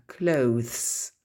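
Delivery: "Clothes" eased out, ending th-s; taking time. Shown as a demonstration. Teacher repeating a difficult word, "Clothes" drawn out carefully. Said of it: "Prendre son temps".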